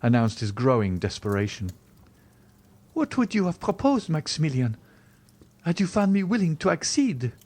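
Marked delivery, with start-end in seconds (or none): 2.9-7.3 put-on high-pitched, wounded young woman; distressed heroine, very high voice; despairing Valentine. A narrator's reading. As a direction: cry out the reproach, high. Valentine questions Morrel.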